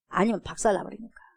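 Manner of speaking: normal talking voice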